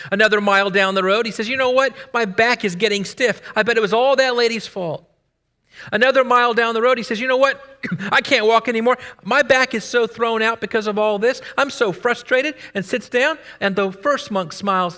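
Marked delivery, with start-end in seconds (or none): 1.5-5.0 complaining monk. Acted. Monk grumbling to his fellow monk, mildly whiny. 7.2-12.5 exasperated monk. Acted. Monk sitting down, complaining to his companion, exasperated.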